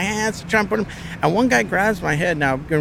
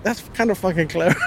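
laughing; 2 semitones higher than usual. Real, not acted. Amused at the insult, laugh heard.

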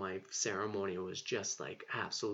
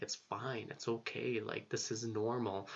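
loving reassurance; 3 dB quieter than usual. Retold or imitated. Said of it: "the medicine was so loving to me".

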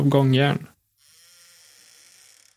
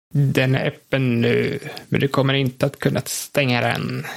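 Igor's voice. Acted. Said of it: "säger".

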